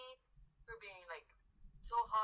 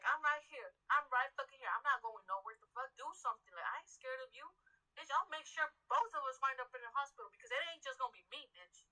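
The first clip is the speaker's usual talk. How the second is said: retold angry challenge. Worker confronting the customer.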